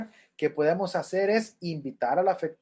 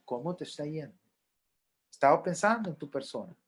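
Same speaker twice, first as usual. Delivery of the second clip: gentle question; faster than usual. Shown as a demonstration.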